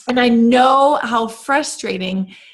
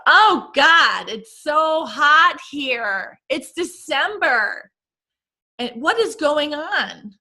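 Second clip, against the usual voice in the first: mock complaining mom, higher; mom blurting out; 5 semitones higher, slower than usual. Mom complains in the car, mock whiny and higher. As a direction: play the fussy mother whining about heat. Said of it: "your mom blurts out".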